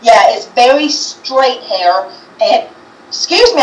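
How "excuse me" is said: burping. Real, not acted. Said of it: "I'm burping".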